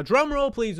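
big hyped announcement; drum roll build-up. Real, not acted. Host hyping his top running back pick, excited. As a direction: build it up like a drumroll.

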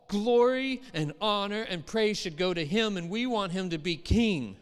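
eager crowd crying for a king; excited crowd. Retold or imitated. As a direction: sell it like a thrilled crowd. Disciples' excited crowd quoted.

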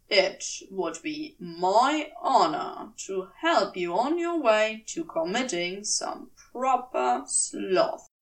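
solemn. Acted. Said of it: "said solemnly".

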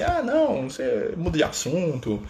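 mock-evasive spirit changing the subject; teasing spirit voice. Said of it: "Aí fala assim".

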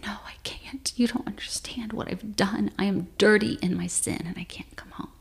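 hushed, ashamed refusal. Retold or imitated. Woman turns away from her husband in shame, hushed and ashamed. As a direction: protest softly, voice sinking away at the end. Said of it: "I turn away in shame".

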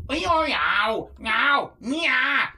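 high, singsong fake Chinese syllables; mock Cantonese gibberish. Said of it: "I specifically try to do Cantonese".

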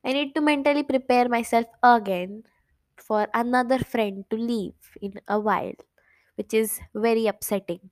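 very slow, drawn-out resigned words, fading to a whisper; sad and slow. Real, not acted. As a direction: let each word sink heavily. Dwells sadly on friend leaving. (धीमी, उदास, थकी हुई आवाज़)

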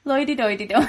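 put-on lightly sung toddler nonsense with a laugh; imitating toddler singsong. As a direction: hum it like a little kid's made-up tune. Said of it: "but it's".

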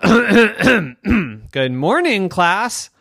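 very slow, drawn-out teacher greeting; slow stern greeting. Acted. Girl repeats greeting slowly to silent class. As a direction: stretch each word, insisting.

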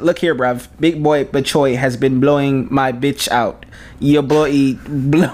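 slow, deliberate attempt at British; British slang accent, drawn out slowly. Shown as a demonstration. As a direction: put on an amateur London-style British accent. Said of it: "my British accent".

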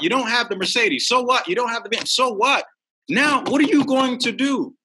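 high, punchy imitation of a mentor; tough-love mentor. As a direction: fire each so what back like a challenge. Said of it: "And he said".

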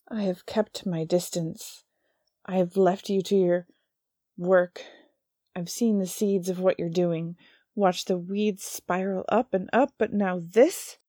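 slow, building to loud anger; rising fury. Acted. Angel accusing the demon, growing slow and loud. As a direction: climb from measured to furious.

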